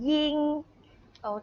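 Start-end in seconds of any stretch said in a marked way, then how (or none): 0.1-0.3 ยิง held long on a high level pitch; first tone. Shown as a demonstration. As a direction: model ยิง in Mandarin first tone, steady and high. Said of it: "เสียงหนึ่งอ่านว่า".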